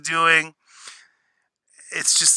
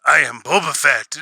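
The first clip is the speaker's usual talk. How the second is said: Batman style; 2 semitones lower than usual. Retold or imitated. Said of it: "All Batman Begins style".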